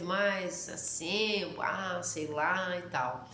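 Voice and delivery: slow, drawn-out Porto Alegre lilt; lazy capital accent. Retold or imitated. Mocking the relaxed Porto Alegre accent, slow and drawn out. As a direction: stretch the words out lazily like a capital dweller. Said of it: "um sotaque mais malemolente".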